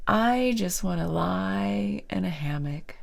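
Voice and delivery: whispered quote. Retold or imitated. Quoting the dreamy client.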